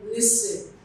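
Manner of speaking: LISTEN with weight on LIS, light second syllable; listen as a front-stressed example; stress on first syllable. Shown as a demonstration. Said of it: "that's where the primary stress falls".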